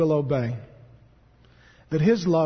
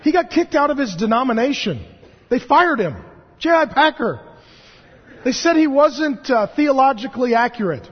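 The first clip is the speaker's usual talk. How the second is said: incredulous; 6 semitones higher, 4 dB louder than usual. Real, not acted. Outraged about Packer being fired.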